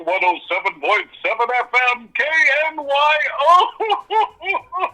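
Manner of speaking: big radio host announcement; booming kids show opener. Shown as a demonstration. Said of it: "bring up the announcement real quick".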